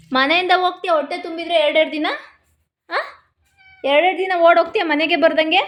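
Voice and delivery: scolding. Real, not acted. Owner to a dog that stays away for days, scolding. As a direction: tell off a runaway pet.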